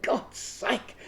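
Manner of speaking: a lightly voiced bored brain giving up; exasperated. Bored brain to the writer, slow fed-up exasperation. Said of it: "your right side will go".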